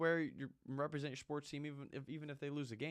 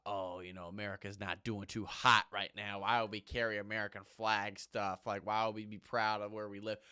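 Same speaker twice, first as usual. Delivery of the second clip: mocking the lady; 3 semitones lower than usual. Mocking the Dick's lady's complaint, muttered and whiny. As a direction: mimic a complaining customer. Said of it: "She's talking about".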